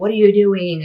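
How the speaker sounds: mock sudden demanding shout, shrill and loud. Speaker recounting a cousin catching her brother in the cabinets, retelling a cousin's yell. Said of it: "she just starts yelling".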